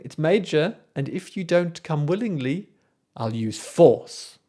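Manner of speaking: smiling Erlking. Retold or imitated. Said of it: "he's smiling".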